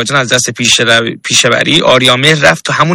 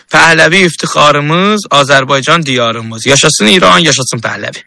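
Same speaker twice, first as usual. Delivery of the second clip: Azeri Turkish. Pretend. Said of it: "در یک جمله به زبان آذری".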